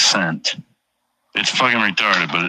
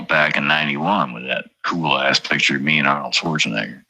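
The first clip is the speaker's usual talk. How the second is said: normal talking voice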